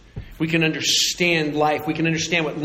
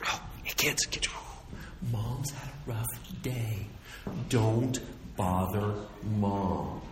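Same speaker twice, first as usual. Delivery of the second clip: put-on hushed, much softer warning to the kids; tired parent whisper; 6 semitones lower, 9 dB quieter than usual. A parent quietly warns the kids about their tired mom, whispered. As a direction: whisper so the worn-out mom doesn't hear. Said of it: "as we get tired".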